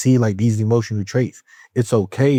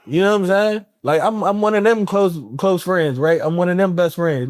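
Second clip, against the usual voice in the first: laughing; 9 semitones higher than usual. Real, not acted. Laughing about telling friends off.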